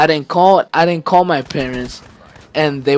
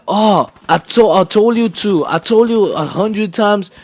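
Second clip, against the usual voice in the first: a touch higher, imitating a yelling dad; mock angry yell; 4 semitones higher than usual. Son retelling how his dad scolded him, mildly mock-angry. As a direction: replay dad's scolding as a mild mock yell. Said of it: "screaming at me".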